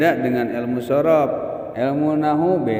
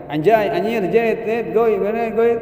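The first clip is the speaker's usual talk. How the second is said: higher, hyped-up mock gamer yelling; mock gamer shouting; 7 semitones higher, 3 dB louder than usual. Teacher mocking a Free Fire player, hyped yelling. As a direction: ham up an excited mobile gamer. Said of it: "Tukang main F F".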